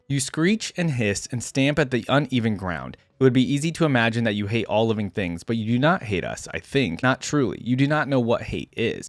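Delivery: measured, solemn first-person narration; dramatic story reading. A narrator's reading. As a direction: read it like a weary lone warrior's grave account. Reads first-person story aloud.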